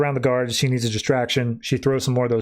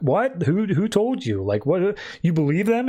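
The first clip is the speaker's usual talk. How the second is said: shocked denial; 5 semitones higher than usual. Retold or imitated. Harley shocked, defensive at accusation.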